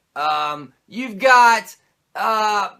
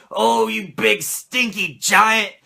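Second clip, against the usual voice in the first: imitating Hogan; slower than usual. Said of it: "Hogan's all the time like".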